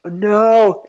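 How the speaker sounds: high, sharp alarmed no. Retold or imitated. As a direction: refuse it in a sudden panic. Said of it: "at first I was like".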